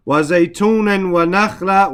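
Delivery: quick recited verse in Arabic; Quran recitation. Shown as a demonstration. Teacher reciting the verse to his class, brisk and chanted.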